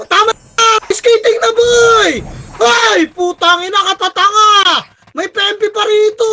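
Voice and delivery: yelling at teammates in frustration; angry shout. Real, not acted. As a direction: bark the order, then curse slowly. Frustrated leader yells at slow team. (galit na sigaw sa mga kakampi)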